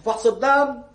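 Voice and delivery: loud, high-pitched outburst; indignant protest. Acted. Poor man balking at paying for a blood test, indignant.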